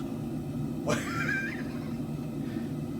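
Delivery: high, wheezing laugh; soft breathless wheeze of laughter; helpless high squeak of a laugh. Real, not acted. Cracking up at own accent bit.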